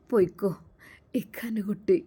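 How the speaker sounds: a gentle hushed go on, little one. Acted. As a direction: whisper it, letting her go. Silent farewell given with eyes.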